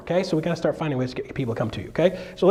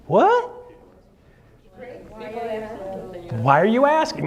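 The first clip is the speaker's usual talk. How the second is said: defensive comeback; 5 semitones higher than usual. Shown as a demonstration. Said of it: "My response back is".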